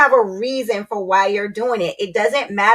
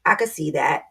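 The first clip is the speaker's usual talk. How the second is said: calm acknowledgement; 3 semitones lower, 3 dB quieter than usual. Retold or imitated. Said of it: "listen and say".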